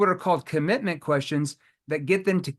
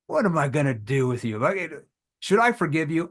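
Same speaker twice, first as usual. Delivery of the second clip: light teasing scold; playful tone. Shown as a demonstration. Salesman showing how to answer a busy prospect, playfully teasing. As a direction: tease them like a friend who let you down. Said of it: "if you do that with a playful tone".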